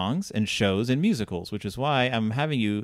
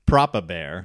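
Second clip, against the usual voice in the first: posh British; 6 semitones lower, slower than usual. Retold or imitated. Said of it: "awfully proper".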